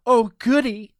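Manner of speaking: high, loud burst of glee; delighted squeal. A narrator's reading. Mrs Claus hears he enjoys the tour, delighted.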